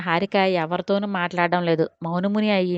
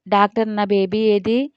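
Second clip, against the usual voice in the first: groggy. Acted. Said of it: "అంది మత్తుగా".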